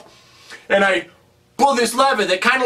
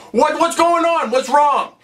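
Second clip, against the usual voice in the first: alarmed asking; 7 semitones higher than usual. Retold or imitated. Mario asks the mushroom kids in alarm. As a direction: ask in sudden alarm what is wrong.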